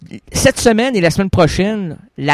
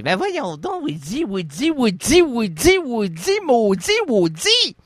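higher, pleading Québécois whine; exasperated actress; 6 semitones higher, 4 dB quieter, slower than usual. Retold or imitated. Actress fed up with Woody Allen, higher mock exasperation. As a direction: beg him to stop, half laughing. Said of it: "elle dit".

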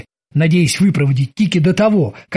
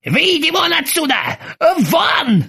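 high yelled order to get out; hammed-up yell of a suffering captain; 12 semitones higher, slower than usual. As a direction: throw him out with a yell. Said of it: "заорал".

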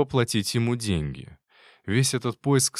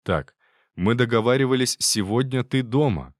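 firm, strict tone to a pet; stern; 2 semitones higher, 3 dB louder than usual. Acted. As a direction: lay down the rule firmly. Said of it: "строго сказал я".

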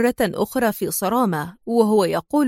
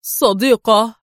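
louder, astonished one-word question; stunned; 4 dB louder, slower than usual. A narrator's reading. Man staring at Rachel in uniform, stunned. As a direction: echo it in disbelief. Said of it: "ذاهلا".

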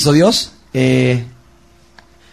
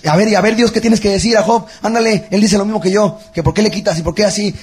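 defiant challenge; 6 semitones higher than usual. Retold or imitated. Retelling reading Job defiantly.

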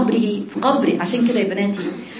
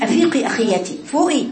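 wake-up call; 4 semitones higher than usual. Retold or imitated. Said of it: "كأن بالظبط بيقول".

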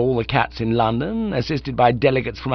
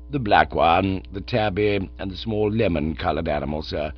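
unflappable valet; 4 semitones lower than usual. Acted. Jeeves lists the cats.

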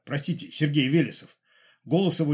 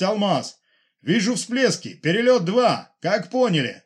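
high, loud clipped radio talk; radio operator voices; 6 semitones higher, 4 dB louder than usual. Acted. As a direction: play the radio chatter, tense. (переговоры по рации, громко и напряжённо)

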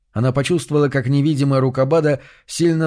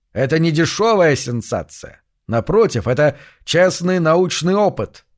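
confident eerie announcer; 4 semitones higher than usual. Acted. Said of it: "приобретал уверенность и звучность".

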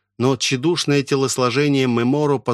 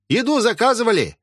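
calling out; 12 semitones higher than usual. Acted. Pickle seller calling out that the food has arrived. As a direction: announce it across the yard. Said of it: "завопил он".

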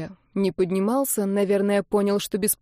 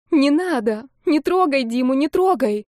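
higher, louder, trembling plea; 6 semitones higher, 4 dB louder than usual. Acted. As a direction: beg with a shaking voice. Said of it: "дрожащим голосом повторяла она".

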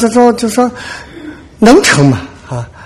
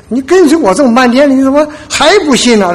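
mild rebuke; 7 semitones higher than usual. Acted. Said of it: "主会责备我们".

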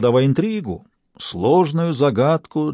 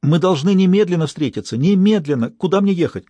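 higher, louder, pressing and frantic; panicked urgency; 6 semitones higher, 3 dB louder than usual. Acted. Stas on the phone, desperate to meet the detective at once. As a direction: push for an immediate meeting, near panic.

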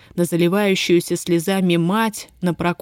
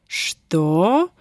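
angry. A narrator's reading. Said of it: "гневно спросила управляющая".

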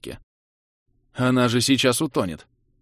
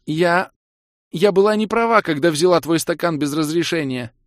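high, loud gurgling plea; 8 semitones higher, 4 dB louder than usual. Acted. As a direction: gurgle it out through water. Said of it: "пробулькала Кира".

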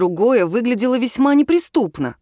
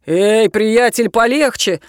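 stepping in; 3 dB louder, slower than usual. A narrator's reading. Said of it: "вступился за неё Богдан".

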